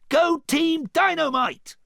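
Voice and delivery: slow, high, loud cheer; rallying shout. A narrator's reading. Donkey cheers his team on, shouting high. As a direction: holler it out, stretching each word.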